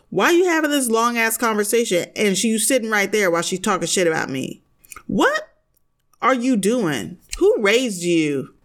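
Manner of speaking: heated, fast, outraged questioning; firing questions at him in disbelief; worked up rant. Real, not acted. Vlogger venting at Shane over his ex, worked up. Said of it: "I got very worked up".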